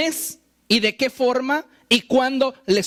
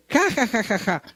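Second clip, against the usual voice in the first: fake laughter. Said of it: "puedes por fuera estar siempre".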